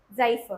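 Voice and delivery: "जाइफर" opening on a Z sound; model pronunciation. Shown as a demonstration. Teacher models a new word for students, model pronunciation. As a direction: say "जाइफर" with आई, ending in a short अ. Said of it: "क्या पढ़ेंगे?".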